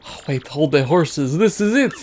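put-on lightly accented theatrical merchant; hammed-up foreign trader; Italian-ish accent. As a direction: muse dramatically in a faint Italian accent. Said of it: "Flavio is like a Italian-y".

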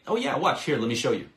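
bright, eager, pitch jumps up on oh yeah; inviting energy. Shown as a demonstration. Sales coach showing prospects a tone that draws them in, upbeat. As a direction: pull them in with lively curiosity. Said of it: "Just that, that tonality, that rhythm, that energy".

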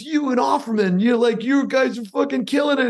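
high-pitched, gushing retelling; imitated excited praise. Guest retelling a colleague's praise of him, imitated excitement. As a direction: raise the pitch to quote an enthusiastic colleague.

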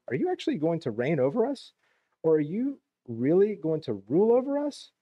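mock-disbelief with swooping emphasis; incredulous. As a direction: read it as the brothers' disbelieving challenge. Brothers challenge Joseph's dream in reading.

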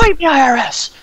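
high, loud goofy voice; squeaky silly voice. Pretend. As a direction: squeak it like a cartoon.

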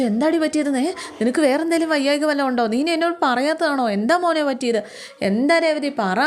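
put-on an elderly woman fussing anxiously over a crying girl; worried questioning.

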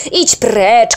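loud threatening yell; menacing shout. Acted. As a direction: threaten to chase him off. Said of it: "krzyknął groźnie". (groźny krzyk)

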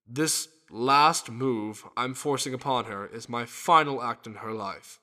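grave farewell announcement; grim. Acted. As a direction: break the final news solemnly. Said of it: "You're sounding a little grim".

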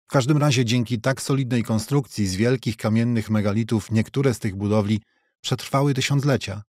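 plain reading voice

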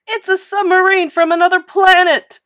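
high, loud alarmed coach; panicked shriek. A narrator's reading. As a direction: shriek it in horror. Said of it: "shrieked the coach".

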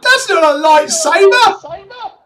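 high, slow mock-offended protest; mock indignant. Real, not acted. Correcting stranger's lightsaber joke, high slow mock indignation. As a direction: drag it out in comic outrage. Jokes about arm growth.

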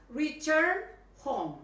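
teacher drawing out return home; slow emphatic model. Shown as a demonstration. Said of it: "Come back home".

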